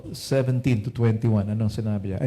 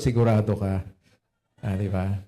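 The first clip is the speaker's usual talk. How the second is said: dry Lord; 5 semitones lower than usual. Pretend. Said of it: "Sasabihin ng Lord".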